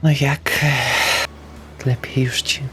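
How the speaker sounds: normal talking voice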